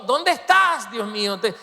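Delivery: anguished cry, pitched very high; impassioned acted shout from the pulpit; Jesús. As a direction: cry out as if abandoned, high and drawn out. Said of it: "Por eso gritó".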